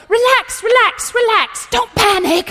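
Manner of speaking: high, loud imitated coach yell; hammed-up shouting coach. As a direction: yell rapid-fire commands like a frantic coach. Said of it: "and he's yelling".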